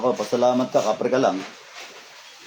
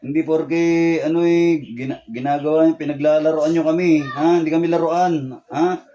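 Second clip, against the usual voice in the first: raised, loud scolding; angry scolding; 3 semitones higher, 3 dB louder than usual. Real, not acted. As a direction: let him have it, voice up and sharp. Healer scolding the spirit.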